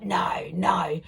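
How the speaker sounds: hushed no, no under the breath; whispered disbelief. Retold or imitated. Friend whispering disbelief about Kate Middleton.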